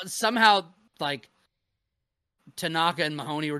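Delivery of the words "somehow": a laughing second go at the word. Real, not acted. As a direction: repeat it through a laugh, higher and louder. Repeats somehow laughing.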